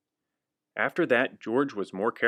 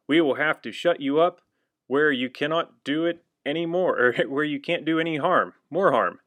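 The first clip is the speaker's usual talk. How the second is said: louder, higher stern warning; stern scolding; 4 semitones higher, 3 dB louder than usual. Acted. Firemen warning George, stern. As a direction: lay down the punishment.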